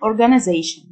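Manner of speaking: organization the American way, "-uh-ZAY-shn"; American pronunciation. Shown as a demonstration. Teacher contrasting accents for learners, American pronunciation of organization. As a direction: say organization in American style, short vowel before "zation". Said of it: "النطق الأمريكان".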